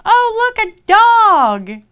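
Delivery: high, loud gleeful cry; excited little girl. Acted. Little girl spotting a wolf she takes for a dog, excited. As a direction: squeal it out with excitement. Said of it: "she was all excited".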